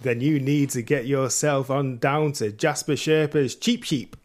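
ad pitchman voice. Pretend. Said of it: "Can I do it in an accent?".

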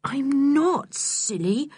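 gentle. Acted. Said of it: "in a gentle voice".

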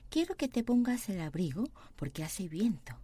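very slow, voiced Spanish; slow model reading. Shown as a demonstration. Teacher repeating aloud for students, slow. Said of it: "teacher models sentence slowly".

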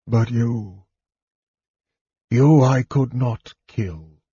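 halting, mildly fearful words; hesitant dread. A narrator's reading. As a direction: shrink back as you speak, pausing after the first words. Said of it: "was replaced by one of fear".

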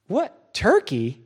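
slow, baffled question; puzzled. Retold or imitated. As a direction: stretch it out in disbelief. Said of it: "he goes".

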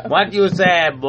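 put-on terrible Jamaican accent. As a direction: challenge them in a fake Jamaican accent. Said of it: "Yours is especially terrible".

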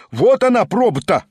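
excited heckle; shout. A narrator's reading. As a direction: gloat to the room. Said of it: "крикнул голос".

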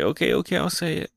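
mock defeated surrender; softly giving in. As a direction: give up quietly. Nami giving in.

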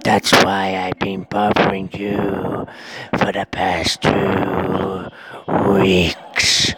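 menacing spider taunting slowly; a creepy spider gloating over revenge. Acted. Voices the spider taunting him.

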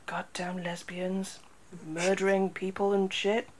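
sarcastic whisper; whispered mock disgust, slow; mock grumble. Mock-bigoted aside after sigh.

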